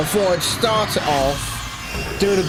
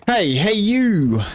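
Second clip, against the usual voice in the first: calling out; 5 semitones higher, 3 dB louder, slower than usual. Acted. Voicing a character calling out.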